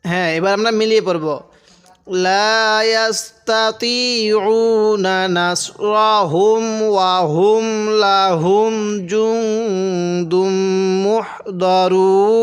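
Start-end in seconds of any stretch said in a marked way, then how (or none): 2.3-12.4 slow chanted tajweed recitation; Quran recitation. Acted. Teacher reciting the verse for students, slow chant. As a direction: recite it slowly with long held vowels.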